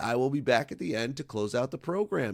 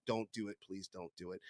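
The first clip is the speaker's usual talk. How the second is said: mock warning; 5 semitones lower, 14 dB quieter than usual. Real, not acted. Joking warning after bad joke.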